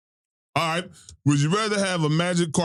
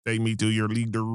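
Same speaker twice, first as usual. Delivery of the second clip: alien voice; 5 semitones lower than usual. Pretend. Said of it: "permanent robot voice".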